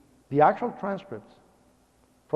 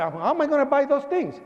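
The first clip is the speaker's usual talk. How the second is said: mildly worried, higher pitch; mock fretting in a raised voice; retold worry, pitched up; 8 semitones higher than usual. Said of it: "because I was worried".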